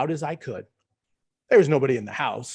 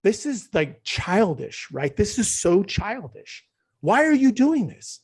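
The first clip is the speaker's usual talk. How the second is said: self-mocking inner voice; 3 semitones higher, slower than usual. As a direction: jeer at yourself for being childish. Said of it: "I was like".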